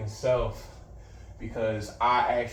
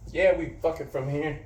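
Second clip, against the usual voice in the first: laughing; 4 semitones higher than usual. Retold or imitated. Answering dude, laughing.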